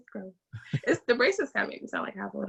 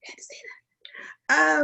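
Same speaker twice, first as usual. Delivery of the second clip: hushed aside under the breath; whisper to self; 6 semitones higher than usual. Real, not acted. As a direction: whisper it like a slip to yourself. Catches herself, speaks aside.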